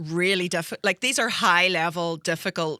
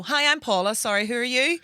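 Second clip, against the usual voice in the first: a lightly voiced mum, higher and louder; mum's bright intro; 6 semitones higher, 4 dB louder than usual. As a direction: cheerfully jump in to take the pressure off. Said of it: "she'll instantly jump in and go".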